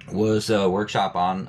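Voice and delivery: usual speaking voice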